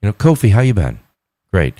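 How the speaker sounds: calmly humoring someone's chat; calming voice. Retold or imitated. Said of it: "was that your seductive voice or calming voice?".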